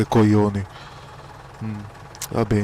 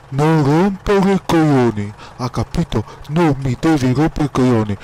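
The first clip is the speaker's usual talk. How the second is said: angry scolding. Acted. Scolding Ludmilla, threatening to fire.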